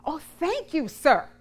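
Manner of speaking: animated storybook gratitude; grateful exclamation. A narrator's reading. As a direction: exclaim the thanks to the priest. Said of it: "she exclaimed".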